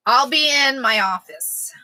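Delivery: breathy stage whisper, slow. Shown as a demonstration. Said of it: "whispered take beside a plain one".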